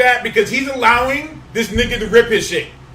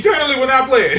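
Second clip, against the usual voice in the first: laughing; much faster than usual. Real, not acted. Repeats pun laughing.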